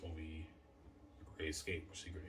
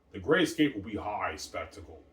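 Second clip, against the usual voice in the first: hyped shout; 3 semitones higher, 12 dB louder than usual. Real, not acted. Hyping his movie, repeated louder.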